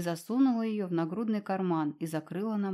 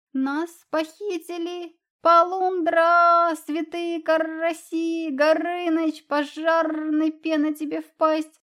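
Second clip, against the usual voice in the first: yelling; 8 semitones higher, 8 dB louder, slower than usual. A narrator's reading. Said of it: "тут же заорал".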